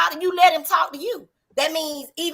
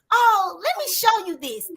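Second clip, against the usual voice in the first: higher-pitched, easy offer to demonstrate; helpful offering tone; 5 semitones higher than usual. Shown as a demonstration. Woman demonstrating her tone to the group, helpful offering tone. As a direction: lift it up, offering to show. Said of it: "you're not getting it in my tone".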